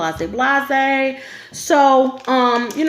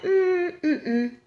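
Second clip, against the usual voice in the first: stifled laugh; 7 semitones higher, 6 dB quieter than usual. Retold or imitated. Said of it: "And I was like".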